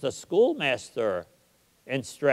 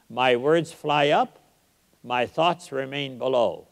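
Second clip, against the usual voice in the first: recited verse. Shown as a demonstration. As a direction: let each line land. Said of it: "write two lines like that".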